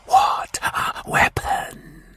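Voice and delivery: slow, whispered awe; impressed whispering Martian. Acted. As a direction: savour the word weapon in a whisper.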